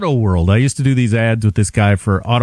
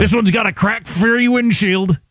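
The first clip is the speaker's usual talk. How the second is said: higher, slow mock sales pitch; car-ad pitchman; 7 semitones higher than usual. Host mimicking the Auto World ad guy, drawn-out pitch. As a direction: proudly sell a meager feature like a local dealer. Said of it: "those were his lines".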